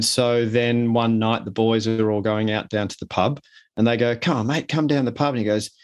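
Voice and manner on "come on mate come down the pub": higher-pitched, lightly acted coaxing; coaxing mate. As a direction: urge a friend along. Mates urging friend to pub.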